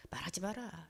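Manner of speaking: very soft, low aside; hushed caution. Retold or imitated. Husband telling her to keep their talk private, hushed.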